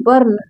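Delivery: "बर्न" modelled alone, as "barn"; teacher's demo of "बर्न" with an "ar" sound; U read as "a". Shown as a demonstration. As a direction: say "बर्न" with a short a before the r. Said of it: "आ करके पढ़ा जा रहा है".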